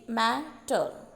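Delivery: "मैटर" in two measured syllables, मै then टर. Shown as a demonstration. Teacher giving a trochee example, "मैटर" said in two syllables. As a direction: separate मै from टर in "मैटर". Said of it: "पहला stress syllable होता है".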